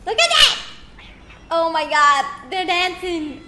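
high, loud look at that; excited exclaim. Real, not acted. Streamer sees the cats dance, loud and thrilled. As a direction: burst out in delight.

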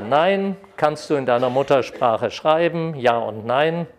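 ordinary talk, nothing marked

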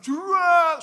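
high, loud burst for a flying kick; imitated impact noise. Brother leaps and kicks father, loud imitated impact. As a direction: throw out a crashing sound effect.

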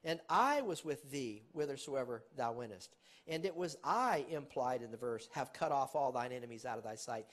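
loud, ringing reading of scripture; preacher declaiming scripture to the congregation; scripture preaching. Acted. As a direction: proclaim the verse like a preacher. Preaching scripture at full force.

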